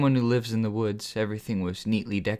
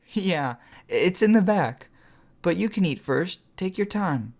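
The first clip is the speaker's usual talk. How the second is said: put-on eager young woman voice; 7 semitones higher than usual. A narrator's reading. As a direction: coax him gently in a higher voice. Sunflower character voice.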